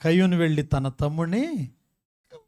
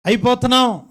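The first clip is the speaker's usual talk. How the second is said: higher, louder imitation wail; mock wailing; 6 semitones higher, 6 dB louder than usual. Caller telling pastor they are helpless, mock wail. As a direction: imitate a woman wailing down the phone. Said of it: "ఓ ఏడుతుందంటండి".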